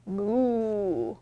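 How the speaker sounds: low, drawn-out "Moo"; cow moo. Shown as a demonstration. Librarian models the cow sound. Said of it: "Can I hear you?".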